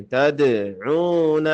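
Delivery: تدعون with bounced d and strong ain; throat pressure on ain. Shown as a demonstration. Teacher models it for learners, throaty ain in تدعون. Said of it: "حلق پہ زور دیں".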